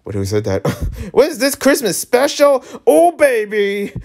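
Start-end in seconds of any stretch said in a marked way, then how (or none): 0.6-2.6 laughing. Real, not acted. Player laughing at game scene. 2.9-3.9 mock sultry. Player hamming up a flirty line, mock sultry.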